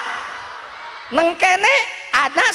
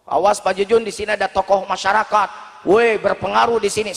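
lower-pitched warning voice; cautioning villager; 5 semitones lower than usual. Acted. Villager warns Pak Jujun about a community leader, low cautioning voice. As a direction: warn him off in a lowered pitch.

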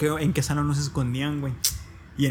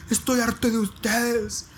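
put-on slow, higher whiny cry of a fed-up boy; mock desperate kid; 7 semitones higher, slower than usual. Boy up a tree threatening classmates, slow high whine.

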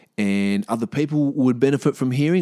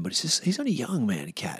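whispered admiration; 3 semitones higher, 6 dB quieter than usual. Real, not acted. Awed praise of young singer.

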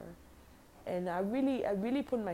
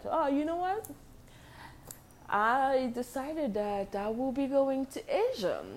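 retold announcement; 7 semitones higher, 3 dB louder than usual.

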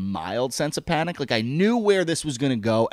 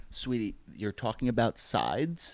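gentle correction; 5 semitones lower than usual. Retold or imitated. Gently correcting stoned girlfriend.

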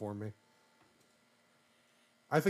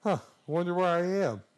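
Luigi voice; 7 semitones higher, 6 dB louder than usual. Retold or imitated. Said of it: "Luigi's like".

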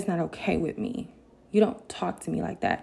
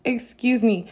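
raised "Excuse me." with a falling end; affronted, firm; 5 semitones higher, 5 dB louder than usual. Retold or imitated. Cut off while still talking, firmly affronted. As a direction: land it as an indignant statement.

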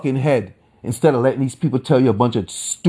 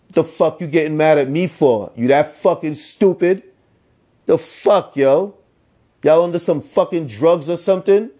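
exasperated rant; 6 semitones higher than usual. Real, not acted. Ranting at listeners, exasperated.

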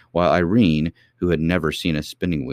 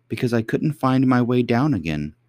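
put-on high little girl voice; small princess, higher and plaintive; cartoon princess; 7 semitones higher than usual. A narrator's reading. Princess answers old lady.

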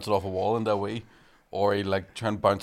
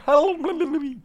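gurgling underwater talk; 3 dB louder than usual. Shown as a demonstration. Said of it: "it's like me talking like I'm underwater".

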